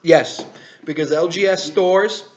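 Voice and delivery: upbeat product news read; brisk presenter talking to camera; YouTube host delivery. Acted. Host's product news segment.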